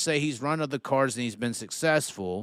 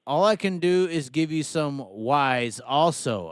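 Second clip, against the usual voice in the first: put-on light Australian accent; 2 semitones higher, slower than usual. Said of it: "Say it in an Australian accent".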